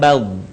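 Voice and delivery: Bal with its final consonant held long; prolonged sound. Shown as a demonstration. Teacher shows the sound lengthening, Bal drawn out. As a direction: stretch out the end of Bal, low. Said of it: "Suaranya memanjang".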